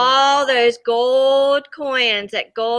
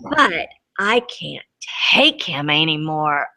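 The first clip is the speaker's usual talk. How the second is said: lower, a touch of hammed-up crying; mock sob; 7 semitones lower than usual. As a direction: whimper it like a fed-up crayon. Crayon's desperate letter.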